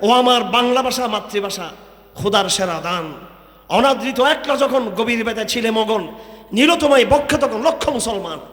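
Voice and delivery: slow, measured reading of a poem; poem recital. Acted. Preacher recites a poet's verse to the crowd, slow and measured. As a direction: recite the verse slowly and with feeling. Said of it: "একজন কবি বলেছেন".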